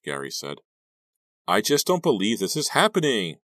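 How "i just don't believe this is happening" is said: high, loud distressed wail; upset, high-pitched outburst; crying out. A narrator's reading. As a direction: cry out in disbelief. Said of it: "Maya cried".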